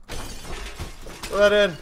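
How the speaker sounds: whispered, slow and urgent. Real, not acted. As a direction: hiss it urgently under breath. Rushing supplies into bag.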